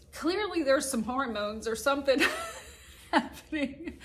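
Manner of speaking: teary laugh that squeaks up high; laughing through tears. Real, not acted. Vlogger wrapping up the video, laughing at her tears. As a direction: laugh it off while still emotional.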